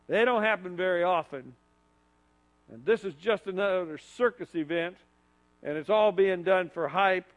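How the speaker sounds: a hint of sneering doubt; mild cynical scoff. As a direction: brush it off like a skeptic. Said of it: "He might have said it in cynicism".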